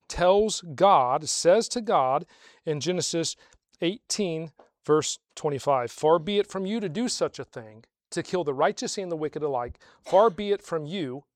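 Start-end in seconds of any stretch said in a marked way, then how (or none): none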